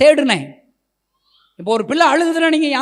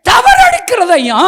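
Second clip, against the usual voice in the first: loud, high and slow cry; climactic shout; 10 semitones higher, 10 dB louder, slower than usual. Acted. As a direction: shout it out slowly at full force.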